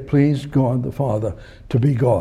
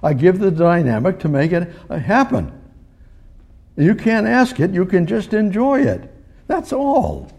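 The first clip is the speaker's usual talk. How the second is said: higher, lightly voiced divine speaker; a hint of God's voice; voicing God; 6 semitones higher than usual. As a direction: speak as God, plainly and kindly. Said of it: "God said".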